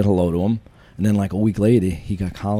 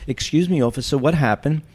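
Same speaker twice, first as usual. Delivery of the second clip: higher, louder imitation of an elderly lady; politely inquiring, pitched-up old woman; sweet old woman; 7 semitones higher, 5 dB louder than usual. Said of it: "this sweet-looking woman, she must have been eighty".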